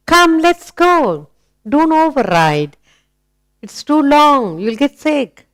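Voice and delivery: lifted, slowed fatherly call; imitating daddy. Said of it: "Daddy says".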